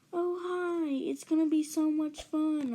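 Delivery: high-pitched, sugary-eager greeting; mock-cheery high voice; gushing babysitter.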